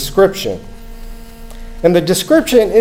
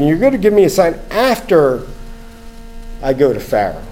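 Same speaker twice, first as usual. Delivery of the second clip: "after" stressed, then a long pause; incredulous Moses. Retold or imitated. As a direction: hang on "after" in mild disbelief. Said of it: "this is what Moses is thinking".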